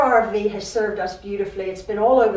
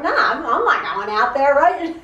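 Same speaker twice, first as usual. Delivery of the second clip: flat refusal; 2 semitones higher than usual. Retold or imitated. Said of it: "I'm like".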